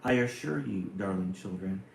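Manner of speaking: put-on lilting, rhythmic read-aloud of a children's poem. Streamer reading a Silverstein poem to viewers, gently lilting. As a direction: read it like a storybook to kids.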